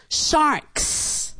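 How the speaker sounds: hushed prompt to a shy student; whispered prompt. Real, not acted. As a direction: breathe the word as a hint.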